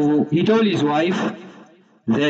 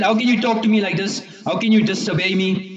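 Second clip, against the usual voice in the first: pretended upset; 3 semitones higher, faster than usual. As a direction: scold as if offended, lightly acted. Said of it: "pretended to be very upset".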